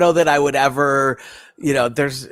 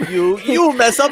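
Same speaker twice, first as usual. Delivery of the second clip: mock Russian accent; 8 semitones higher than usual. Continuing the Russian accent joke.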